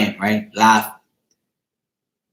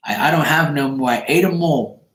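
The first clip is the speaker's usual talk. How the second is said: higher-pitched imitation of a child's denial; lightly voiced little girl; 6 semitones higher than usual. Girl telling the man her fishies are gone, lightly voiced little girl. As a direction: imitate a kid owning up to an empty snack box. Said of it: "And she goes".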